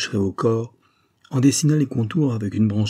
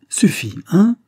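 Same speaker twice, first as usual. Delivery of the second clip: much higher and louder interruption; abrupt cut-in; 10 semitones higher, 7 dB louder, slower than usual. A narrator's reading. Police secretary cutting off the lawyer's tirade, abrupt. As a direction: shut him up brusquely. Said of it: "coupa brusquement monsieur Sabin".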